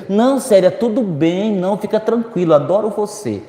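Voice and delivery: fake reassurance. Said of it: "eu disse".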